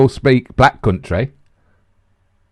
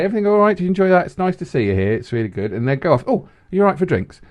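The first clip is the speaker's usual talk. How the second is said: soft, casual check on the table; subtle waiter; 3 semitones higher, 6 dB quieter, faster than usual. Retold or imitated. Waiter subtly asking diners about drinks, soft and casual. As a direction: slip it in quietly, offhand. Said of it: "some people do it quite subtly".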